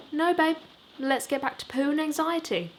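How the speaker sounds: put-on a brisk woman talking down to the boys; manager's voice.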